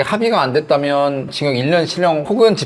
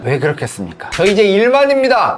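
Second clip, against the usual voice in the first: smug reply; 4 semitones higher than usual. Retold or imitated. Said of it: "얘기하면".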